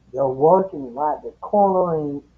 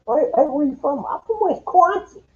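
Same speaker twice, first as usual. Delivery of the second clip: higher, sing-song mock Midwest accent; a higher mock Wisconsin accent exchange; 10 semitones higher than usual. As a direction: play a Wisconsin local asking where you're from. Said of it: "that's how the New Yorkers talk".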